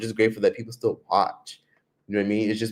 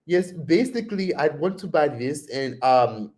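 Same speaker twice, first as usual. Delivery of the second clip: put-on pitched up with an Indian accent; imitated Indian accent; 5 semitones higher than usual. Answering a vendor, imitated Indian accent. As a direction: pretend to be South African in Tyler's Indian accent. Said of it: "that's how Tyler talks".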